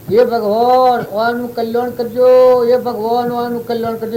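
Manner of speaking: loud pleading prayer call; calling out to God. Retold or imitated. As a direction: cry out a blessing to the heavens. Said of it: "તે બૂમો પાડે".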